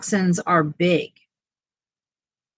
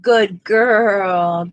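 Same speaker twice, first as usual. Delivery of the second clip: talking to a dog; 6 dB louder than usual. Real, not acted. Praising the dog, louder.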